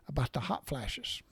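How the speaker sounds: whispered and slowed, a sly secret; whispered aside. Retold or imitated. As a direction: lean in and whisper the punchline. Secret joke about his wife.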